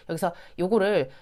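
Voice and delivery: ordinary talk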